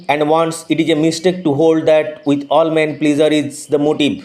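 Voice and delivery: slow, measured reading of the English passage; slow text reading. Acted. Teacher reading the English text to students, slow and measured. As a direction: read each word out deliberately for the class.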